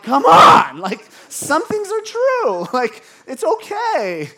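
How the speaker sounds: high, shouted plea; exasperated outburst. Acted. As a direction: cry out in comic exasperation, drawn out. Acted exasperated plea at the culture.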